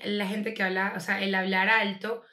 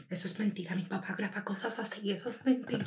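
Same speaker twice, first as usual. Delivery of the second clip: muttering to herself; 10 dB quieter than usual. Retold or imitated.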